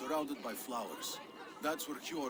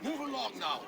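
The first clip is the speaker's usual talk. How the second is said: loud, higher bark to clear the dock; gruff shout; 6 semitones higher, 4 dB louder than usual. Acted. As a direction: shoo them off the dock. Dockmaster shooing people off.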